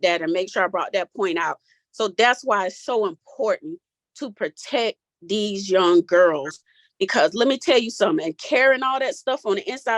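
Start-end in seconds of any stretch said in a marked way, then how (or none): 1.9-10.0 voice cracking. Real, not acted. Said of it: "I don't know if you hear my voice cracking".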